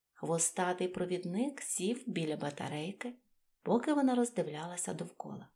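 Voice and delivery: usual speaking voice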